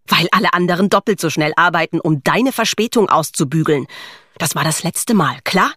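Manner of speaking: brisk, lightly acted scolding; irritated boss laying down a warning; snapped reprimand. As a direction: snap at a latecomer, mildly voiced. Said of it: "fauchte Iris".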